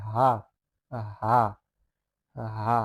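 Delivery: হা sounded out with a full throat; big-voiced ha. Shown as a demonstration. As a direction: say হা firmly, with voice. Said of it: "একটু আওয়াজ করে বলতে হবে".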